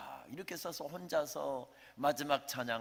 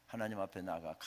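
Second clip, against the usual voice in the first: normal talking voice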